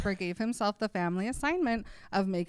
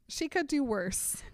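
laughing; 9 semitones higher, slower than usual. Retold or imitated. Edward's punchline, teller cracking up.

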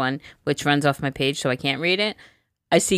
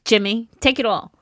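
frantic grandma; 8 semitones higher, 7 dB louder than usual. Pretend. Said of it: "I'd be like".

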